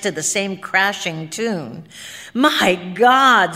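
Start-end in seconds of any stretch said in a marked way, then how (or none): 2.3-3.6 louder burst of alarm; startled exclamation. A narrator's reading. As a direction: exclaim it in sudden realization. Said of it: "said George".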